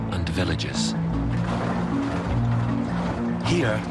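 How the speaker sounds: measured voice-over with deliberate phrasing; documentary narration. A narrator's reading. Narrator leading viewers into the tiger mystery, documentary narration. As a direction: narrate with suspense, pausing between phrases.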